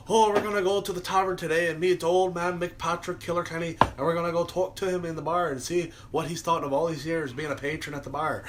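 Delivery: lightly mocked Irish reporter accent; Irish news reporter. Irish reporter introducing old pub patron, mock Irish accent. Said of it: "there's, like, a news reporter".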